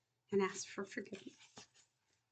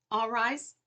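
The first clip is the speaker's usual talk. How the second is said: loud bailiff order all rise; 3 semitones higher, 5 dB louder than usual. Acted. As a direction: call the room up sharply. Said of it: "the bailiff ordered".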